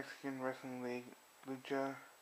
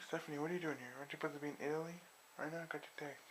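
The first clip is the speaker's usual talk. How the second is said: higher-pitched retold surprise; mildly surprised questioning; 3 semitones higher, faster than usual. Asking Stephanie why she isn't in Italy, mock surprise. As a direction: imitate someone caught off guard, voice lifted.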